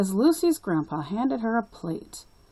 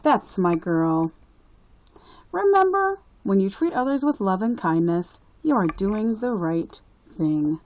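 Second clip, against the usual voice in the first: a lightly voiced, louder kind grandpa; a kind grandpa comforting Lucy, a bit louder; grandpa reassuring; 4 dB louder than usual. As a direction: gently set his granddaughter straight as grandpa. Papa Gino praising Lucy.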